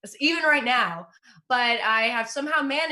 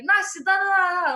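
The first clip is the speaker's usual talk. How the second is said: higher, louder mom on the phone in Russian; mock Russian mother on a call; imitating mom; 7 semitones higher, 5 dB louder than usual. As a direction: rattle it off like an impatient Russian mom. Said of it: "she'll be like".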